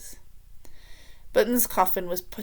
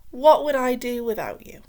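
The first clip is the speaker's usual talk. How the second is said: put-on a louder, eager young king; King Fred voice; 4 semitones higher, 9 dB louder than usual. A narrator's reading. The grateful king leaning on Spittleworth, loud and eager. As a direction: gush with relief at your adviser. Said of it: "said Fred".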